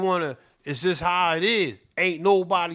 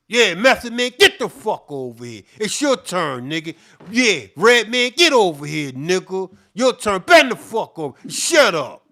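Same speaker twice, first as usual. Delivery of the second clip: louder, yelled commands to rappers one by one; barking boss orders; 8 dB louder than usual. Retold or imitated. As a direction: yell them over like a cruel boss. Voicing bosses calling rappers over.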